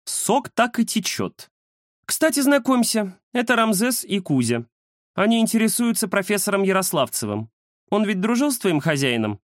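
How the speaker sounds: высокий насмешливый голос; поддеть и перейти к делу; кошка Индира. Acted. (Индира насмешливо знакомит котов)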